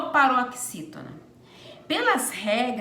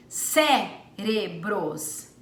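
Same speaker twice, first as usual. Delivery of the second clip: slow deliberate reading; 3 semitones lower, much slower than usual. Shown as a demonstration. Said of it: "teacher reads answer option".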